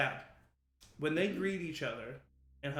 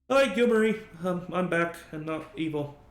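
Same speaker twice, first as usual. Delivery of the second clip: bright, loud and much higher hello; cheery greeting; 4 semitones higher, 9 dB louder than usual. Acted. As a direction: greet them like an eager puppy.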